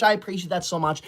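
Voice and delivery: choked up with gratitude; teary thanks. Acted. Viewer's last donation.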